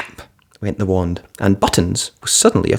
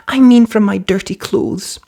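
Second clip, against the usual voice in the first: quick correction; 11 semitones higher than usual. A narrator's reading. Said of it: "Cinderella said quickly".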